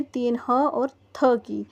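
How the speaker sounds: ह and थ said apart, slowly; sounding out letters. Shown as a demonstration. Teacher breaking हाथी into sounds for pupils. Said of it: "हाथी में कितनी ध्वनि है".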